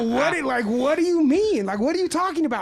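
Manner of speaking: high, loud baffled questions; confused. Retold or imitated. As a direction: demand an explanation, bewildered. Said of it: "And I go".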